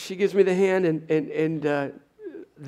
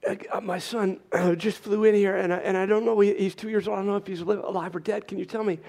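retold breathless plea, pitched up; mock out of breath; 4 semitones higher than usual. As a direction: act a winded father begging for news. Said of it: "I'm out of breath".

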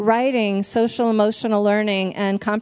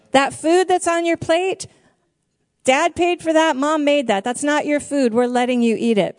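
stern parent; 3 semitones higher than usual. Retold or imitated. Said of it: "We've told our kids".

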